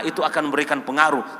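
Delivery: usual speaking voice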